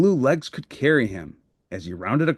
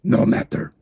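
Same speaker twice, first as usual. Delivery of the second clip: Cookie Monster. Acted. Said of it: "said Cookie Monster".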